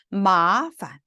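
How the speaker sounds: 마판 with long 마, short light 판; neutral tone ending. Shown as a demonstration. Teacher showing students a neutral tone, 판 short and weak. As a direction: stretch 마, then drop 판 short and weak. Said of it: "판자는 경성이기 때문에 짧고 약하게".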